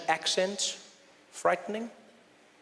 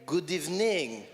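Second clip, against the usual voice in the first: mock French accent; 2 semitones lower, slower than usual. Comedian greeting a Montreal crowd as the French say, mock French accent. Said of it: "as the French say".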